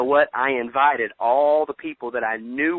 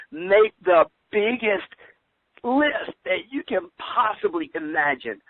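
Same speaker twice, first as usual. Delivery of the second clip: higher, louder and slow, stretching every word; big emphatic push; 5 semitones higher, 3 dB louder, slower than usual. Real, not acted. Urging his team to list every name, higher, louder and slow. Urging listeners to build huge lists.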